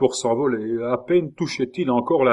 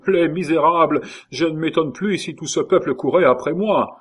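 higher, louder outraged rant; indignant rage; 6 semitones higher, 4 dB louder than usual. A narrator's reading. Schomberg raging at the mob, higher outraged voice. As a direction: let the fury carry on.

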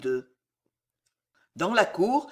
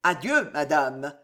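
slow cold farewell; 4 semitones lower than usual. Acted. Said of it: "dit lentement Montmorency".

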